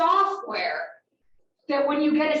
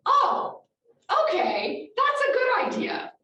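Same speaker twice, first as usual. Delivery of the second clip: mock naive voice; 12 semitones higher than usual. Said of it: "brilliant guy said".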